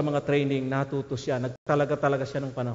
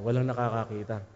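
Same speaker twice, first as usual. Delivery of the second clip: sneaky hush; 5 semitones lower, 6 dB quieter than usual. Retold or imitated. Thief checks no guard watching.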